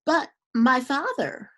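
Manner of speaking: butter up her father with a sweet, high voice; falsely sweet appeal to her father; sweetly. A narrator's reading. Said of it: "Manyara said sweetly".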